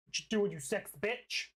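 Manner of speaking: words burped out; burping the words. Real, not acted. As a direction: talk through a burp. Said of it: "I did not mean to burp at you".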